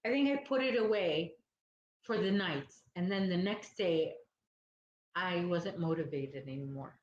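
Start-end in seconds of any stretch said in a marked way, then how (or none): 5.1-7.0 talking through a yawn; words stretched by a yawn. Real, not acted. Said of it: "I'm yawning".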